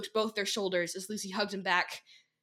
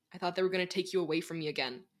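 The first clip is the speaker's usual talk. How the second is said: thick uneven voice; 2 semitones lower, 4 dB quieter, faster than usual. Acted. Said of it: "His voice was thick and uneven".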